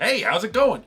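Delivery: high, loud sing-out hello; comically chirpy greeting. Acted. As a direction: call out brightly despite your predicament. Creeper voiced greeting, tied up.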